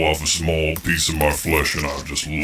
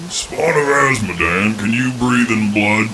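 demon lord voice; 4 semitones higher than usual. Acted. Demon patron addressing Malvolia.

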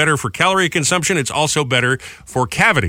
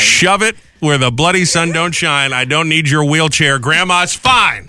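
put-on British accent; 3 semitones higher, slower than usual. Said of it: "the British accent".

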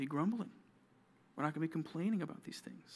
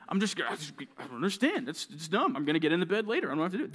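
muddled, grumpy protest; grumbling; 4 dB louder, faster than usual. Acted. Kid showing the youth group what grumbling is, mock grumbling. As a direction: grumble in broken, repeated starts. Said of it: "That's grumbling".

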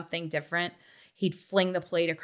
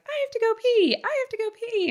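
mimicking a little boy, pitched way up; squeaky kid begging for the bathroom; imitated high-pitched toddler whine; high child voice; faster than usual. Child voiced in retold story.

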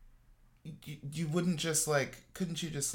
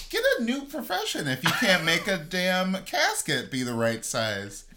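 laughing; 5 semitones higher, 4 dB louder than usual. Real, not acted. Laughing mock outrage.

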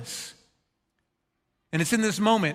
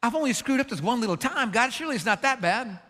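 higher, lightly mocking excuse-maker; mock Pharaoh; 4 semitones higher than usual. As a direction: mimic a man shrugging off his sins. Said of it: "that Pharaoh would say".

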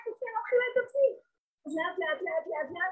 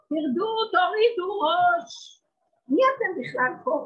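stern command; 6 semitones higher, 6 dB louder than usual. Acted. Commanding the proud.

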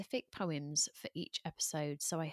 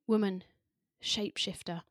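poem reading; 2 semitones higher than usual. Acted. Host reads a poem to her listeners, in a measured recital.

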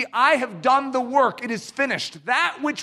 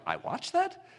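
mock disbelief; 7 semitones higher, 9 dB quieter than usual. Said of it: "you're like".

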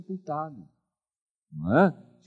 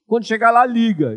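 wife's reminder, louder and higher; mock insistent wife; 8 semitones higher, 7 dB louder than usual. Pastor imitating his wife's order, louder and higher. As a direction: repeat it like a nagging wife. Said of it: "a minha esposa falou".

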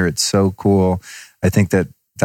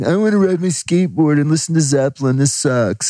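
put-on bored teenager; 8 semitones higher than usual. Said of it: "And I was like".

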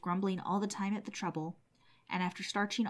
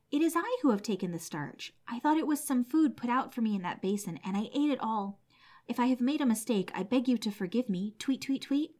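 lightly raised, chirping bird voice; a small bird owning up, a touch higher; chirpy little sparrow; 4 semitones higher than usual. Acted. Sparrow confessing to the old woman, lightly chirpy voice. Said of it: "the pretty bird chirped and said".

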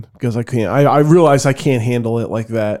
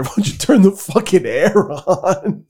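higher and slow, drawn out; mock exasperated complaint; 5 semitones higher, slower than usual. Drunk son to mom about the heat, mock exasperated. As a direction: re-enact a drunken whine lightly.

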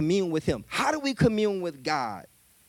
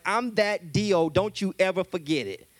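cocky. Acted. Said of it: "He's mad cocky".

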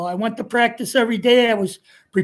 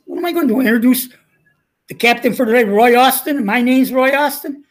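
retold protest; 2 semitones higher, 4 dB louder, faster than usual. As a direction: sputter it like a flustered umpire stuck in a joke. Umpire father protests son as captain.

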